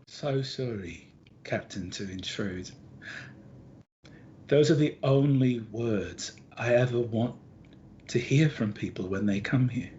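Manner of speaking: tender Gardy. Acted. GM voices weeping Gardy.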